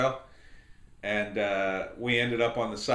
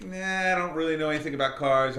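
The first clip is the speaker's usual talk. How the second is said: put-on carefree girl; 5 semitones higher than usual. Makeup girl shrugs off car.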